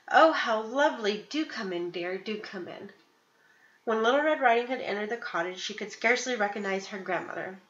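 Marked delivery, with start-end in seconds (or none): 0.1-1.9 a hint of a cackly old granny; put-on granny sweetness. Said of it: "cackly voice". 1.9-2.9 slow and softer granny coax. Acted. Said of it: "cackly voice".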